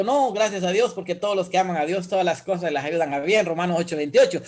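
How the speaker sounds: rattled-off scripture comfort; brisk, pat reassurance; quick, glib quote. Retold or imitated. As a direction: recite the verse quickly, like a ready answer. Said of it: "rápido lo dice a uno".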